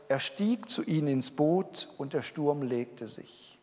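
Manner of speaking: slow, deliberate reading of the verse; unhurried scripture reading, words spaced out. Shown as a demonstration. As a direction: savour each word as you read it aloud. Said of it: "mit dem schönen Vers".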